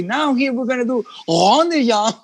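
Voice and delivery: lightly voiced instructor calling the step; announcing "rond de jambe" to a class; dance teacher telling the Congress class the step. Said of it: "I have to say".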